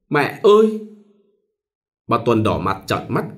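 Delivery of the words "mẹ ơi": high, loud wail for mother; wailing cry. A narrator's reading. Bride still wailing for her mother, high and loud. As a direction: cry out in anguish. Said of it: "vẫn gào thảm thiết".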